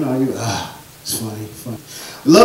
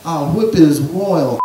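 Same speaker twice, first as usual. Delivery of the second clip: mock English queen; slower than usual. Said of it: "If you were the Queen of England".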